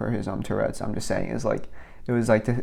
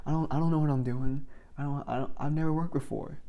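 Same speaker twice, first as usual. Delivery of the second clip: retold freaking out; 5 semitones higher than usual. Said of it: "I was like, freaking out".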